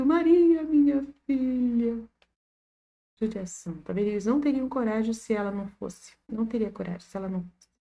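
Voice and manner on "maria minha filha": loud, high-pitched wailing scream broken by sobs. Retelling the old couple's single cry to maria: imitating a sobbing scream. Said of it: "soluço dos dois velhinhos e um único grito".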